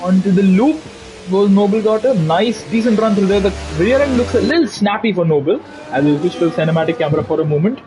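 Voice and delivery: animated motorsport lap commentary; live play-by-play. Real, not acted. Commentator calling a driver's qualifying lap, animated play-by-play. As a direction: follow the car corner by corner, building interest.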